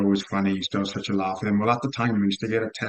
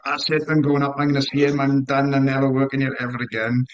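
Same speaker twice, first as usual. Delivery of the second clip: mildly heated, higher-pitched mock outburst; retold angry rant; 3 semitones higher than usual. Host retelling how a workmate lost it over his wages, mock-angry. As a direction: imitate a workmate's furious rant without really shouting. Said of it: "he started shouting and screaming".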